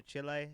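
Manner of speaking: "Chile" said CHEE-lay, Spanish style. Real, not acted. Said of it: "Stop saying it like that".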